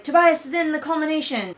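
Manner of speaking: high, loud urgent cry; excited shout. Retold or imitated. Delphi bursting in to warn Layla, high loud cry. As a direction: blurt out the news in a rush. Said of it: "is like".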